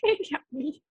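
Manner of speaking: words pushed through closed lips; talking with mouth closed. Shown as a demonstration. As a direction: mumble without opening your mouth. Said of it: "It's like".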